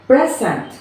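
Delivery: "present" with the weight on PRE, falling after; first-syllable stress. Shown as a demonstration. Teacher showing the class first-syllable stress, PRE strong in "present". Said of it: "example in our first syllable of stress".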